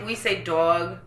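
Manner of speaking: New York vowel in "dog"; New York accent. Shown as a demonstration. Showing friends how home says "dog", New York accent. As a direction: say "dog" as a New Yorker would. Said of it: "New York accents".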